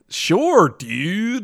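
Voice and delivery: exaggerated California surfer-dude accent; high start dropping away in a surfer-dude accent; California eighties accent. Host mocks Brits attempting American, California surfer accent. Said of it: "like the California eighties accent".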